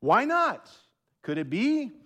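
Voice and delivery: high, pleading mock questions; hammed-up whiny what-if voice; mocking the what-if guy. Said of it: "giving me all of these hypotheticals".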